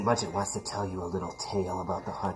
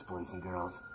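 put-on even softer, lower boys and girls; creepy hush; 4 semitones lower, 10 dB quieter than usual. A narrator's reading. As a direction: menace them quietly. Second address to audience.

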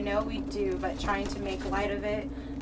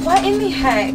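surprised; 8 semitones higher, 10 dB louder than usual. Real, not acted. Surprise proposal scavenger reveal.

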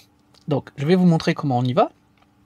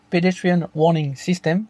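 slow, showy American English accent; French speaker's careful go at an American accent; slower than usual. Shown as a demonstration. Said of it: "Vous avez vu mon accent américain".

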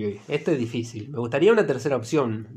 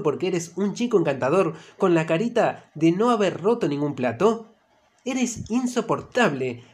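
enraged outburst; 2 semitones higher than usual. Acted. Emma exploding at Mateo, furious. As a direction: spit the insults at him in rage. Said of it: "Nunca has visto a Emma tan enrabiada".

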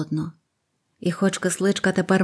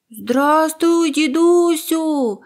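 put-on high, loud, chirpy child's greeting; little bird calling; 9 semitones higher, 5 dB louder, much slower than usual. First bird greets grandfather, high and loud. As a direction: call out brightly from the sky. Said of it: "закричала друга пташка".

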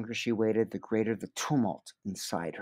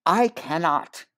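honeyed regret; 5 semitones higher, 5 dB louder, slower than usual. Acted. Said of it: "dripping with the honey of regret".

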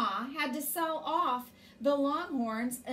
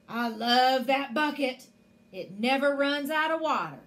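louder, proud giant voice; raised-voice giant bragging; boasting giant; 6 dB louder than usual. Acted. Giant boasts of his bucket.

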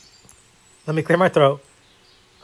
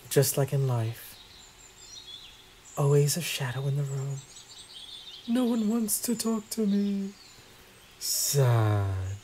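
mock self-pity; 3 semitones lower, 10 dB quieter, slower than usual. Ignored in game, self-pity joke.

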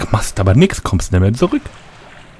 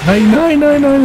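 panicked. Real, not acted. Monster found him, panicking.

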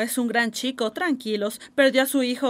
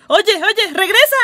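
loud, higher call after him; 5 semitones higher, 8 dB louder, slower than usual. Acted. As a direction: shout to bring him back. Calling after departing Marlin.

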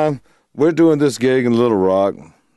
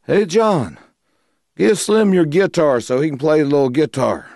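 higher-pitched imitation of a bandleader's request; Larry calling out; 6 semitones higher than usual. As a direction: call over to your guitarist, as retold. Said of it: "Larry looks at me and goes".

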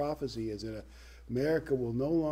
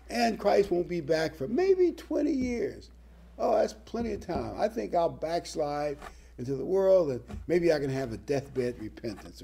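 mock careless backslider; 4 semitones higher than usual. Mocks complacent backslider's thinking.

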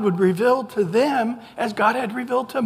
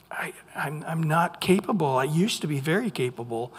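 whispered confession; 4 semitones lower, 5 dB quieter than usual. Acted. Moses confessing incapacity.

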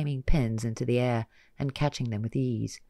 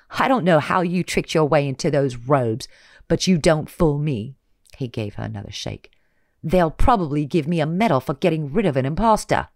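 sneering villain; 3 semitones higher, 7 dB louder than usual. Acted. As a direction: taunt with contempt.

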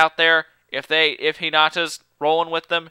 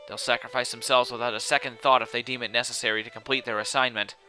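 measured, level explanatory reading; lightly voiced solemn expert; grave know-it-all character; 5 semitones lower, 6 dB quieter than usual. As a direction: explain it soberly, with little pitch movement. Voices game dialogue.

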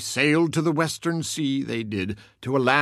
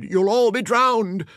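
high, loud alarmed cry; a high loud call of alarm; 9 semitones higher, 4 dB louder than usual. A narrator's reading. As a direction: cry out the warning of drowning. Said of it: "everyone cried".

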